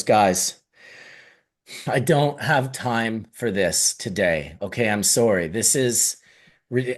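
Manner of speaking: minister brushing off. Retold or imitated. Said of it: "he, he goes".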